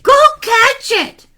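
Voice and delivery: high, insistent command; urgent mother. Acted. Mother sending son after hair, urgent. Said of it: "said his mother".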